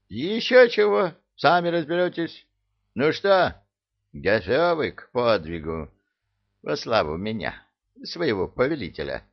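high, brisk and cocky; rally the troops with gusto; perky. Acted. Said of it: "Бодренько вопросил Иблис".

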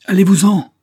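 desperate high shout. A narrator's reading. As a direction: scream at him to leave. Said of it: "crie Liane".

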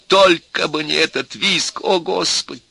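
high, slow desperate plea; near hysterics. A narrator's reading. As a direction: wail in mounting hysteria. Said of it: "начиналась истерика".

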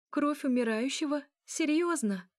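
high-pitched, indignant questioning; bitter disbelief. A narrator's reading. Elya accuses Mikhail with hate and disappointment, indignant. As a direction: throw the questions at him, pitch jumping up. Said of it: "полным ненависти и разочарования".

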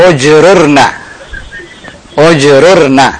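"Ujrurna" said carefully, each syllable clear; teacher models "Ujrurna" after a wrong try; correct pronunciation. Shown as a demonstration. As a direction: model "Ujrurna" slowly for the student. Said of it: "kurang tepat".

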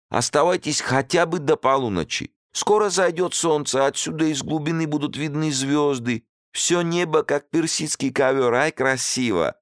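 high, dreamy persuading host; enticing host. A narrator's reading. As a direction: paint the sky to tempt him.

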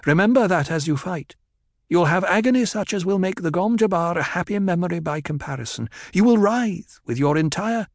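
twist the voice into a menacing whine; twisting whining tone. Acted. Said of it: "she said in the same tone".

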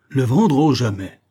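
loud high cry, dropping away; appalled refusal. A narrator's reading. Usurer asked to sell his scale, appalled refusal. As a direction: recoil from the very idea.

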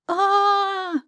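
high sudden scream of fright; startled scream from the lake. Acted. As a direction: shriek at what she sees.

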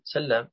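سلام said sal-laam, with a doubled l; doubled lam. Shown as a demonstration. Teacher gives students the default form, doubled lam in سلام. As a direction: hold the l in سلام as a geminate. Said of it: "إذن يكون على الأصل".

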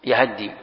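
يهدي said yahaddi, a after both y and h; fatha on ha. Shown as a demonstration. Teacher demonstrating a reading to students, yahaddi for يهدي. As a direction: give يهدي two short a vowels and a doubled d. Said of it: "قراءة فتح الياء والهاء".

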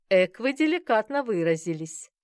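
laughing. A narrator's reading. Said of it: "рассмеялась я".

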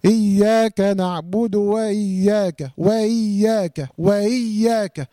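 slow recitation, hamza of وإياك slurred over; softened hamza. Shown as a demonstration. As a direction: glide from wa into إي in وإياك without a glottal catch. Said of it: "تسهيل".

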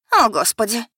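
loud, high horrified cry; tearful shock at seeing him; потрясённо; shocked gasp. Acted. Becky sees Simon, in tears.

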